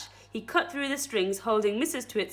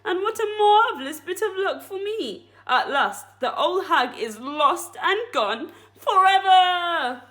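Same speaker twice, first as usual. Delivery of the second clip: louder, higher, triumphant villain; gloating Mister Twit; 6 semitones higher, 5 dB louder than usual. Acted. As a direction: crow over getting rid of his wife.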